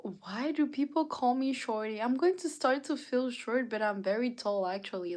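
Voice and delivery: high-pitched playful complaint; playful protest. Real, not acted. Protests being called shorty.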